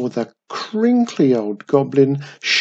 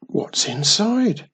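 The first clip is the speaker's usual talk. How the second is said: higher, slow and curious; wondering child; 8 semitones higher, slower than usual. Acted. Young Wiz asks Mum about cave, curious. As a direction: ask it wide-eyed, lightly voiced. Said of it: "wondered Wiz".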